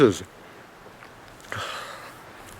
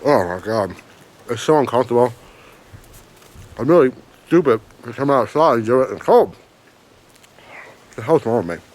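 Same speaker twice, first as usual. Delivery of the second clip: pepper pain. Real, not acted. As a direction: mouth burning from hot pepper. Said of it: "My ears hurt".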